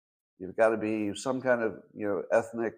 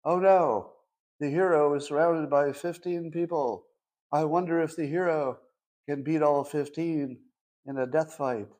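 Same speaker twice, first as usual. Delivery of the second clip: higher-pitched sarcastic worry; mock suspense; 4 semitones higher than usual. Film fan mocking a predictable hero fight, in mock suspense.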